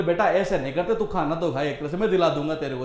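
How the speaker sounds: a hint of a patient dad talking his son round; soft coaxing father. Papa coaxing sulking child.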